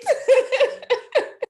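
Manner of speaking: high burst of laughter; loud laugh. Real, not acted. Laughing at own joke.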